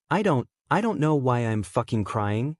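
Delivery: "crying" tilting upward, as if unsure; questioning upturn. A narrator's reading. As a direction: lift "crying" at the end like a question. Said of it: "his voice tilting up at the end like it's a question".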